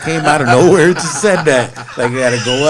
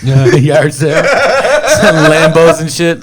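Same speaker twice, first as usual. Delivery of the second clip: laughing; 4 semitones higher, 4 dB louder, slower than usual. Real, not acted. Laughing at the joke.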